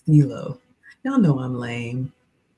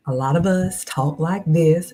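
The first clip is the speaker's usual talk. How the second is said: Southern accent. Shown as a demonstration. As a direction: talk like a Southern girl. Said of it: "I'm a Southern girl".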